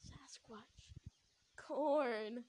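a hint of a feeble half-asleep boy; weak and feeble. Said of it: "He sounded so weak and feeble".

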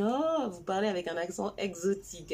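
imitating marvelling relatives; long wondering oh, lightly acted; amused retold astonishment; mock amazement.

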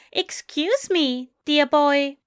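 high, slow, enunciated British voice; precise British accent. A narrator's reading. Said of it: "in precise, enunciated tones".

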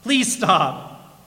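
storyteller's half yell; mild yell. A narrator's reading. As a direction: call out to a runaway donkey. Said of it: "the man yelled".

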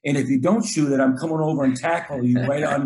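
fired-up coach's shout-out on the court; emphatic praise. Acted. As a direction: praise him hard, insistently. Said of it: "I really try to praise that guy".

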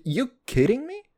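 ordinary talk, nothing marked

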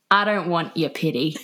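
lightly mock British accent, amused; tipsy British accent, laugh creeping in. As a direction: retell it in a put-on British accent. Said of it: "in that accent".

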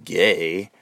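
condescending. Shown as a demonstration. Showing how the word comes out wrong, condescending. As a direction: drop low and sneer "Gay?" as a question. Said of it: "it comes out condescending".

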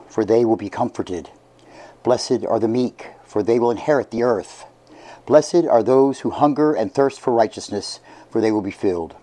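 hushed, solemn liturgical reading; gospel reading. Acted. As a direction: read scripture softly and reverently. Priest reads the Gospel aloud.

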